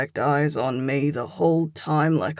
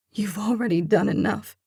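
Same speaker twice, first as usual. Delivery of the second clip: a hint of a higher hurt woman; tired final refusal, lightly voiced; hurt woman's voice; 6 semitones higher than usual. A narrator's reading.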